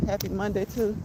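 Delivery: talking through a face mask; muffled behind a mask. Real, not acted. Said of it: "if I sound muffled".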